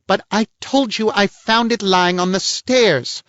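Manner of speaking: the lady angrily denying it, high and loud; angry. A narrator's reading. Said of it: "she said angrily".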